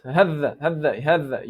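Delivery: "hadda" with the th doubled and held; too much pressure. Shown as a demonstration. Teacher shows students the mistake, over-held th. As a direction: add time and pressure to the middle of "hadda". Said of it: "add more time and pressure".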